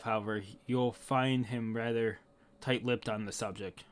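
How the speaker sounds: low, softened storyteller reading; story narration. Acted. Telling how Garp became hero of the Marines, solemn narration. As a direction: narrate the legend solemnly, letting it settle. Reads the history aloud.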